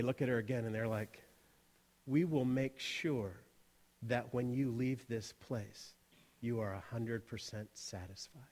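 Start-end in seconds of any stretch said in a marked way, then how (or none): 2.1-8.4 low, slow, soft host's promise; slow right down and reassure her very softly; soothing assurance. Retold or imitated. Hosts assure doubtful customer of satisfaction, slow soft assurance.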